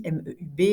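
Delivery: name each letter separately, M, E, U, B; spelled letter by letter. Shown as a demonstration. Teacher spelling the radical for the class, letter by letter.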